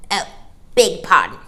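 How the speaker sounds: polite. Acted. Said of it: "said politely enough".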